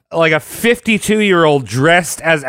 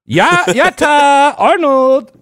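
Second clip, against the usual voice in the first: anime voice; 7 semitones higher, much slower than usual. Pretend. Anime Japanese exclamation.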